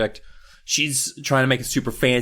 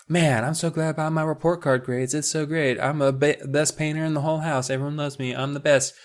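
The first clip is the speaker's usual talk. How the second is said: smug sister voice; 4 semitones higher than usual. Retold or imitated. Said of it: "She's just like".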